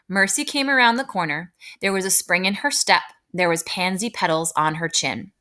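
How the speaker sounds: calm, fluent storybook narration; calm narrator. Shown as a demonstration. Teacher models the narrator's part for students, calm and fluent. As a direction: read smoothly without much excitement or feeling. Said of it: "calm, fluent voice".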